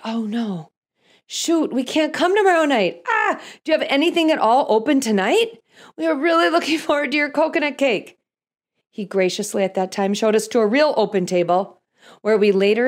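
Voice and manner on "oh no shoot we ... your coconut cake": flustered pleading. Retold or imitated. Pleading with host after mix-up.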